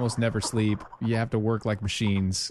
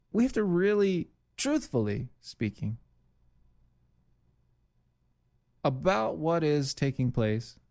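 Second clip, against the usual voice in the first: mocking Omar impression. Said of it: "She continues".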